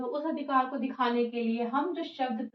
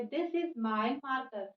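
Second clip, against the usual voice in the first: slow example sentence; much slower than usual. Shown as a demonstration. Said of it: "तो इसमें हम क्या pronoun use करेंगे?".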